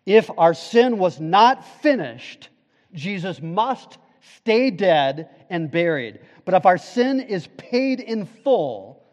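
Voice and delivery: loud, driving pulpit preaching; preaching at full force. Acted. Pastor preaching the cross to his church, fervent. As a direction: build it like a revival climax. Sermon builds to climax.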